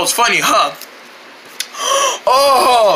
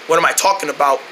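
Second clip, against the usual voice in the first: gruff gatekeeper; 6 semitones lower than usual. Acted. Gruff gatekeeper blocks the road.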